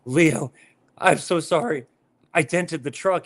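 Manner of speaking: high-pitched retold apology, mildly weepy; imitating a teary phone call; mock tearful. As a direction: play a distraught confession, lightly. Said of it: "in tears".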